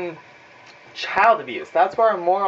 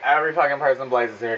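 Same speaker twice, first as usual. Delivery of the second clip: fast inner mockery; 3 semitones lower, faster than usual. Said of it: "I'm saying this in my fucking head".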